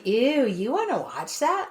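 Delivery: drawn-out, disdainful imitation; mock disgust. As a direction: mimic someone turning their nose up. Imitates someone scornful of the movie.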